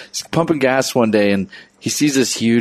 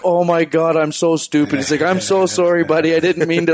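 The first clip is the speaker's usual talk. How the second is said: higher, hammed-up sorry big guy; sheepish apology; 5 semitones higher than usual. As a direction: play the embarrassed brute apologizing. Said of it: "And the guy's like".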